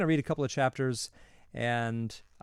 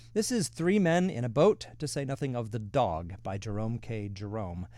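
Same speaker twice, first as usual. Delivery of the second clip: title announcement. Real, not acted. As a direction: present the title like a proud reveal, lifting "is".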